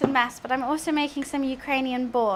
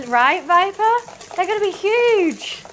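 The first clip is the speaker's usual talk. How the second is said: gym bro voice; 6 semitones higher, 6 dB louder, slower than usual. Pretend. Mock gym-bro hype voice.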